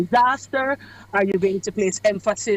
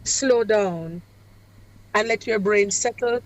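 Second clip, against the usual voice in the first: demonstrating a pause. Shown as a demonstration. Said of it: "I like how you even just did it to show us".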